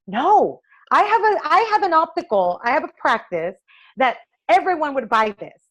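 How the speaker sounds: pushing back hard at a dismissive designer; insistent pleading. Retold or imitated. Eye doctor arguing with a designer, insistent and high.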